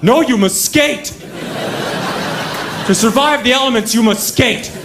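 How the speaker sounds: mock stern official. Ottawa official ordering commuters to skate, high and booming. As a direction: proclaim it like a pompous city official.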